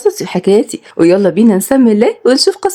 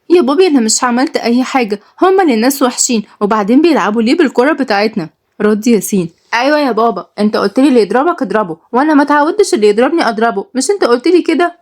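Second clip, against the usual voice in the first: put-on cheeky child; 3 semitones higher than usual. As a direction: talk back to dad like a bratty child. Children answering their father.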